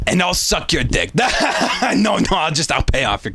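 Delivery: laughing through the joke; real giggle breaking in. Real, not acted. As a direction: crack up at your own line. Joking aside, cracks himself up.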